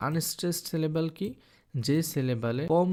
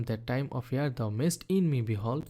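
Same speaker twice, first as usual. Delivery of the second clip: slow recitation; much slower than usual. Shown as a demonstration. Teacher reading a Shakespeare sonnet line aloud to students, slow recitation. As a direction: read the sonnet line very slowly, each word on its own. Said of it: "যে কবিতার লাইনটি দেখলাম".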